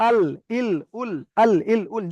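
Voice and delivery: "আল, ইল, উল" with l at the gum of the upper teeth; tongue-tip lam. Shown as a demonstration. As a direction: drill "আল, ইল, উল", tongue tip held on the tooth roots. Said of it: "দাঁতের গোড়ার সঙ্গে লাগবে".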